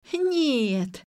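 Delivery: a high, loud cry of no; yelling. A narrator's reading. Nelli refusing her parents could be calling, yelling. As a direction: cut her off with a yell. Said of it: "заорала Нелли".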